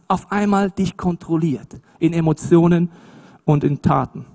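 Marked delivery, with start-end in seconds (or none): none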